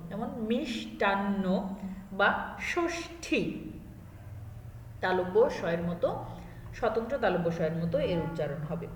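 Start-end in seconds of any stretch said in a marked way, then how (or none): 0.5-3.4 মিষ্টান্ন and ষষ্ঠী slow, ষ as শ; ষ sounded like শ, slowly; pronunciation demo. Shown as a demonstration. (তালব্য শ এর মতো ষষ্ঠী)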